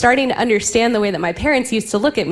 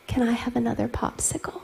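laughing; 2 semitones higher, 11 dB quieter than usual. Real, not acted. Son's request, laughing.

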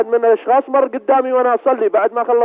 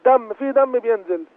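slower, key word first; slow clarifying repeat. Real, not acted. Caller repeats for the sheikh who missed it, slowly. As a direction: spell it out slowly for the listener.

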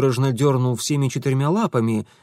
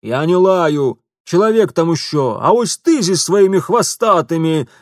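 high, loud outraged shopkeeper; indignant shopkeeper; 5 semitones higher, 7 dB louder than usual. Acted. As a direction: spit out the insult. Shopkeeper protests. (лавочник негодует)

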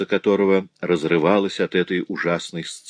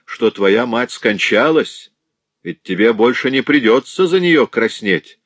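bitter taunt; 6 semitones higher, 5 dB louder than usual. Acted. Widow taunts her son.

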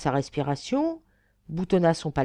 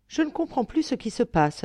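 mildly timid, higher-pitched remark; 6 semitones higher than usual. Acted. Abbot back from scouting outside ventures a remark, timid. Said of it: "hasarda-t-il timidement".

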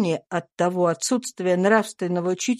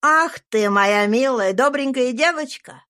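louder, tender delight; fond exclamation; 5 semitones higher, 4 dB louder than usual. A narrator's reading. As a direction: cry out lovingly to the girl. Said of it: "вскричал Сент-Клер". (отец нежно восклицает)

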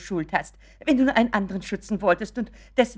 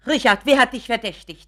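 indignant; 2 semitones higher, 10 dB louder than usual. Acted. Indignant demand.

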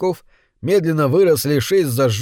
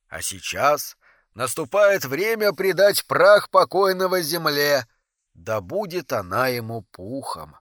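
solemn officiant, fading much softer; funeral officiant; 3 dB quieter than usual. Acted. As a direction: announce the burial, then fade away. Голос погребальной программы. (торжественный распорядитель похорон, затихая)

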